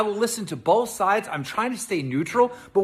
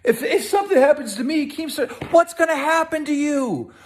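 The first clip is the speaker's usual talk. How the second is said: higher, laughing mock imitation; mocking Trisha; 8 semitones higher than usual. Keem mocking Trisha's tweet in a higher laughing voice. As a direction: parody her tweet with a sneer. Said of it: "Look what you're tweeting out".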